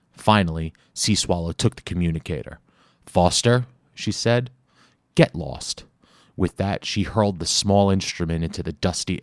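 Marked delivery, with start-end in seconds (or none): 3.1-5.8 higher, dismissive woman's voice; female voice. Acted. Sea Swallow tells Foster to get lost, higher and dismissive. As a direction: brush him off coolly, higher pitched.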